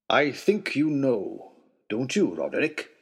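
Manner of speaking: slow, hard, stern question; a host turning cold and stern. Acted. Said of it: "something hard and stern".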